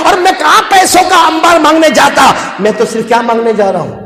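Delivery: high, loud tearful begging; chanted sobbing appeal to mother; crying plea. Acted. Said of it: "बेटा रोता रहा".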